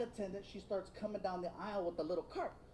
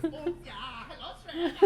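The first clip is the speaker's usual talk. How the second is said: lightly put-on German accent like Shrek's pigs; a hint of a German accent, laughing; 4 semitones higher than usual. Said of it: "sound like the three little pigs from the movie Shrek".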